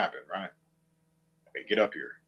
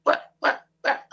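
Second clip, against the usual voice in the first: imitating the background voice; 7 dB louder, slower than usual. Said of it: "you will always hear".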